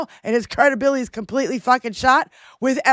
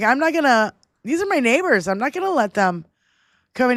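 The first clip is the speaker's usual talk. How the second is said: put-on speaking with a Minnesota accent. Retelling what a neighbor on the street said: Minnesota accent. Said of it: "with the Minnesota accent".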